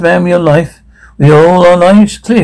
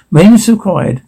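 flat public address voice; PA announcement; 3 semitones higher than usual. Acted. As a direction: announce it like a tannoy. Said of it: "Voice over P A system".

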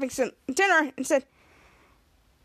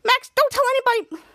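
higher, louder pleading; urgent plea; 9 semitones higher, 4 dB louder than usual. Retold or imitated. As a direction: beg him not to tell. Disguised girl begging Max.

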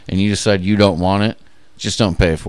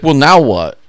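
higher, louder dopey whine; imitating the clueless eBay buyer asking what next; mock clueless buyer; 6 semitones higher, 7 dB louder, slower than usual. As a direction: play the helpless buyer.

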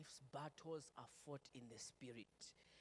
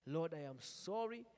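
louder prayer; 5 semitones higher, 7 dB louder than usual. Shown as a demonstration. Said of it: "Just say".

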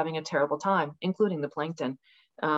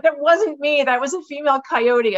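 mock reassuring protest; 8 semitones higher, 6 dB louder than usual. Replying to the alarmed neighbors.

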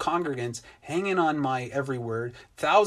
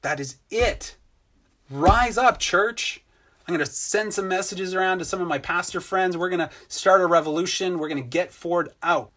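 rallying mock outrage, louder and higher on rise up church; mock rage; 4 semitones higher, 5 dB louder than usual. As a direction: play the fired-up rebel pastor, half in jest. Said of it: "I was tempted to rage".

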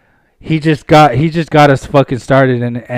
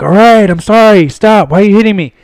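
high, mock begging; retold pleading; 4 semitones higher, 4 dB louder than usual. Beaten dude begs the homies to stop, high mock plea. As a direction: imitate a beaten man crying uncle, pitched up.

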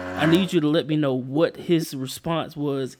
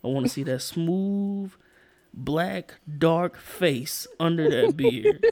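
demonstrating a tender, earnest request; heartfelt conviction. Shown as a demonstration. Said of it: "say it with all conviction".

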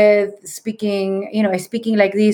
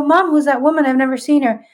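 surprised question; 6 semitones higher than usual. Retold or imitated. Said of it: "I go".

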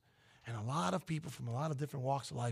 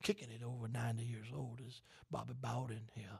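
Bobby Bowden voice; 3 semitones lower than usual. Pretend. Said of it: "Now you just sound like Bobby Bowden".

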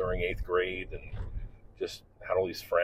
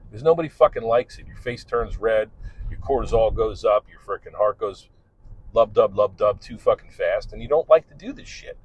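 blunt teacher; 3 semitones higher, 4 dB louder than usual. Retold or imitated. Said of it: "And I would say".

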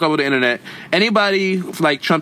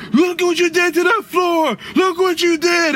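yelling parent. Retold or imitated. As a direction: scold like a pranking parent. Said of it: "the parents prank the kids".

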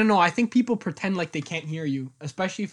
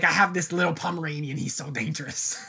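put-on girl on the bus; 2 semitones lower than usual. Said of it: "She's like".

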